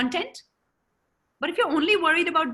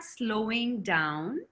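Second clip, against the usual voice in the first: slowing down; 5 semitones lower, 5 dB quieter than usual. Shown as a demonstration. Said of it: "slowing down and I start talking like this".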